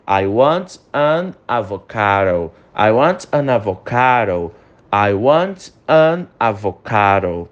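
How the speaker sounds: slow drill with "an avocado" linked; slow correct example. Shown as a demonstration. Teacher modelling the corrected sentence slowly. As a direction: read the correct form slowly. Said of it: "o correto que tá embaixo".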